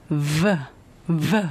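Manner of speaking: isolated V sound, vibrating; buzzing V. Shown as a demonstration. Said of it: "touch your lower lip and actually vibrate".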